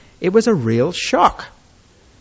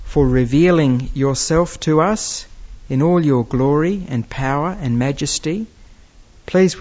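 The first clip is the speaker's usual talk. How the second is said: even, measured prayer voice; spoken prayer; 2 semitones lower than usual. Real, not acted. Preacher asking God to teach and help the congregation, measured prayer. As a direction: address God sincerely and steadily, without dramatics.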